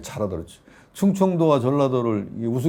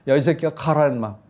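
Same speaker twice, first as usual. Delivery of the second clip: retold angry yell; 3 semitones higher, 3 dB louder than usual. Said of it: "말 그대로 할게".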